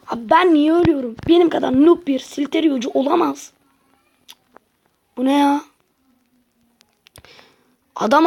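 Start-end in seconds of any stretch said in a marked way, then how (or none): 0.1-3.5 exasperated complaint. Real, not acted. Dying again, complains aloud. (oyuna sesli sitem eden isyan)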